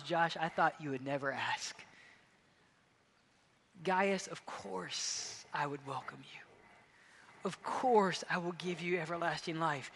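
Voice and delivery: soft, gentle heavenly reply; tender. Pretend. Heaven welcoming a repentant sinner, softly and tenderly. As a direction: answer gently, almost hushed. Heaven answering the praying listener.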